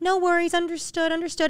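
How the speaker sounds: high, sweet, overly polite voice.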